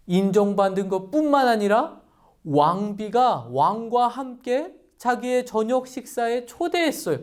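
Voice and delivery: normal talking voice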